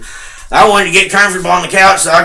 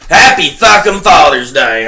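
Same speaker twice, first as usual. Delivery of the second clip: bitter shout; 2 semitones lower than usual. Real, not acted. Ranting son shouting at his dead dad's memory, bitter. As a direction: spit out a furious, sarcastic greeting.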